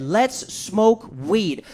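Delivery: slow, drawn-out invitation; buddy's slow lazy offer to smoke; slow stoner drawl. Retold or imitated. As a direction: stretch every word lazily. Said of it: "This is what he said".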